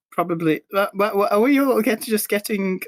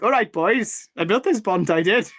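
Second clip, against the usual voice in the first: higher mock Welsh greeting; Welsh accent; 4 semitones higher than usual. Mimicking the bridge builder to friends, Welsh accent. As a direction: imitate a Welsh local hailing the lads. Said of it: "we started like".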